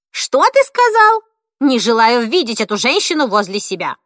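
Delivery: put-on old woman refusing the nurse; indignant outburst. A narrator's reading. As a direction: shriek it in outrage.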